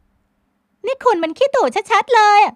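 high, loud, slow retort; snappy young woman. A narrator's reading. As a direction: fling the accusation back. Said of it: "พลอยไหมตอบน้ำเสียงสะบัด".

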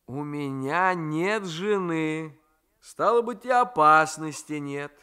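a nephew daring fate to strike; defiant young man. Acted. Raisky teasing.

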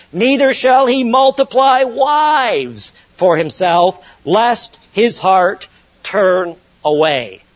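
slow, weighty reading, NOT leaned on; emphatic scripture reading. Acted. Preacher reads the king's prohibitions to the congregation, slow and emphatic. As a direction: spell out each prohibition slowly. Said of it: "Verse seventeen".

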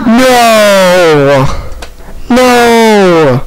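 high, drawn-out cries of no; dismayed outcry. Real, not acted. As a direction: refuse it in exasperated dismay. Horrified at the game.

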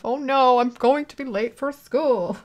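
redo of heroine line. Acted. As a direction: drag it out like a dramatic anime girl. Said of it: "I don't think I ever said that".

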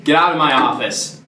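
loud, dismissive send-off; scornful dismissal. Acted. Interviewer rejects both applicants and orders them out, scornful dismissal. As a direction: throw them out with loud contempt.

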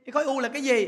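ordinary talk

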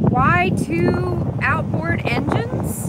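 loud and high against gusts; shouting over wind. Real, not acted. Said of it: "Sorry about the wind noise".

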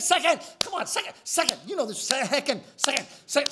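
pushy coaxing. Retold or imitated. Coaxing clerk, insisting.

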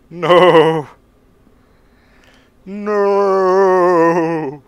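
high drawn-out shocked no; loud denial. Real, not acted. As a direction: cry out in disbelief. Reacting to something in game.

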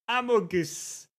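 "Amogus" in a French-style pronunciation. Shown as a demonstration. Streamer repeats "Amogus" after the translator, French pronunciation. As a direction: give "Amogus" full French vowels. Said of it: "if you do French".

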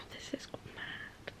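slow, unvoiced, overwhelmed; teary whisper. Real, not acted. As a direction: breathe it out in tears. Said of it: "never cried this much".

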